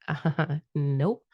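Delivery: ego refusing. Retold or imitated. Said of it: "And my ego went".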